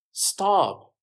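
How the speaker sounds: loud, high police order; shouted command. A narrator's reading. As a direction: call out to halt a suspect. Officer orders fleeing jogger to stop.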